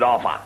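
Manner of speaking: "Arthur" said as Ah-fah; Londoner's TH as F. Acted. London job applicant giving his name, "Arthur" as Arfur. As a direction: put an F in the middle of "Arthur". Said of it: "the Londoner has trouble with the T and the H".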